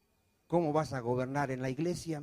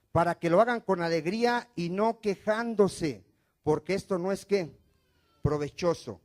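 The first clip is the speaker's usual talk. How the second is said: lectura de la Escritura; 5 dB louder than usual. Real, not acted.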